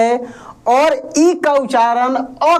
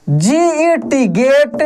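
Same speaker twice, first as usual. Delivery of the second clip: teacher spelling G E T slowly; slow spelling demo; much slower than usual. Shown as a demonstration. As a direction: slowly spell out each letter, rising on E. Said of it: "देख रहे हैं ना?".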